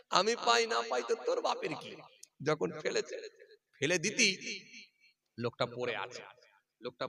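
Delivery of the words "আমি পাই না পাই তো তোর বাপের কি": higher, louder angry snap; angry retort. Retold or imitated. Angry fisherman yells at the father, mock fury. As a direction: throw it back at him angrily. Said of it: "রেগে গরম হচ্ছে".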